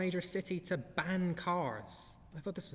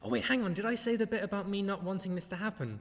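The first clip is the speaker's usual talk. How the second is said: imagined drug dealer; 5 semitones higher than usual. Retold or imitated. Vlogger imagining a suspect in interrogation, higher hammed-up mock. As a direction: ham up a suspect remembering the magic words. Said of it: "you can just imagine fucking sitting in the interrogation room".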